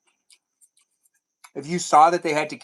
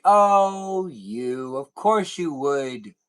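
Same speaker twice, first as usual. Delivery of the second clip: pretend indulgent papa; much slower than usual. Streamer as papa replies to daughter, mock indulgent. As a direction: play a mock-doting dad, stretching the words. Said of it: "I'd be like".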